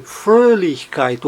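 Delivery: "Fröhlichkeit" slowly, stressed on FRÖH. Shown as a demonstration. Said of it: "Está no Frö".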